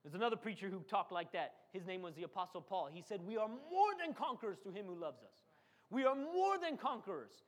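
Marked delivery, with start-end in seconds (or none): 3.3-7.4 voice of faith. Retold or imitated. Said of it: "That's how faith talks".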